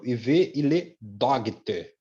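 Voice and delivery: "Dogte" read letter by letter with a hard G; wrong pronunciation. Shown as a demonstration. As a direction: misread daughter as "Dogte". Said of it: "pronúncia errada?". ("Dogte" pronunciado errado, lendo o G)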